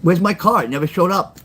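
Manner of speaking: mock complaining lady on the phone; angry customer. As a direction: play the annoyed caller demanding her car. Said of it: "The lady calls back and says".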